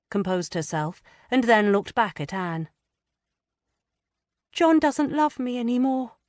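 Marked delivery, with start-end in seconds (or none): 4.5-6.2 put-on high, hesitant girlish voice, stammering; a frightened young wife struggling to confess; young distressed woman. A narrator's reading. Lydia hesitantly confiding her fears to Anne.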